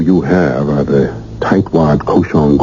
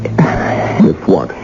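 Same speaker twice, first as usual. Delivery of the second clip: whisper. Acted. Husband's tense whispered question.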